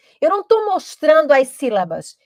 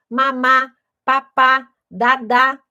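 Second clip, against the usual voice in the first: balbucio de bebê; slower than usual. Shown as a demonstration. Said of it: "A gente já usa segmento".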